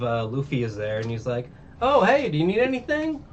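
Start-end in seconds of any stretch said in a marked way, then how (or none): 1.8-3.2 very high, loud awkward offer; super awkward. Retold or imitated. Luffy butts in as upset villagers leave, super awkward. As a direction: blurt it out with awkward cheer. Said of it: "Like, super awkwardly".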